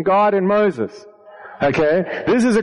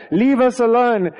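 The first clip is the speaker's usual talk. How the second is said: slow plea; 4 semitones higher than usual. Acted. Israelites begging to stay slaves.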